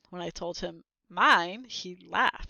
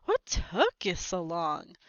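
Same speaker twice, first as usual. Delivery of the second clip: mild complaint; 2 semitones lower, slower than usual. Acted. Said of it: "but instead he said".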